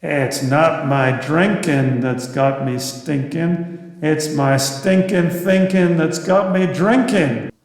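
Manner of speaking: slow, drawn-out Iowa drawl; a lightly done Iowa drawl, slow. Retold or imitated. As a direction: stretch the vowels like an Iowa storyteller. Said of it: "in his Iowa drawl".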